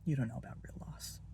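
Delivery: hushed grief. Acted. Grief over his wife's death.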